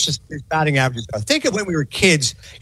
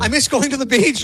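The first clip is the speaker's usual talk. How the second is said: pitched-up mock lament; imitated griping friend; 6 semitones higher than usual. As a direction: mimic a homesick friend's complaint. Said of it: "He goes".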